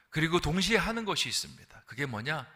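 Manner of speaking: ordinary talk, nothing marked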